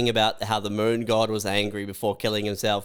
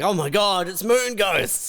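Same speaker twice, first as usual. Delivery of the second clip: mock panic; 7 semitones higher than usual. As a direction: fake terrified scream, much higher and slow. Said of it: "you start screaming".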